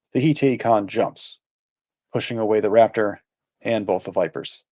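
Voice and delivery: measured, evenly paced recap reading; recap read aloud. A narrator's reading. Host reading an episode summary to listeners, measured narration. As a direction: read it out in phrases, with pauses between sentences.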